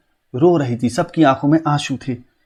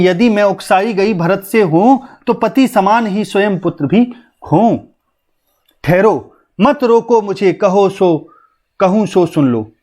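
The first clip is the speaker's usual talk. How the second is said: higher-pitched, measured verse reading; poem recitation; 4 semitones higher than usual. Acted. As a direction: recite the queen's plea as verse. Recites verse in the queen's words. (ऊँचे सुर में कविता पाठ)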